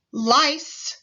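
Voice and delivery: teacher stretching the final s; final hiss. Shown as a demonstration. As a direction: hiss out the end of "Lice,". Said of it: "Repeat after me".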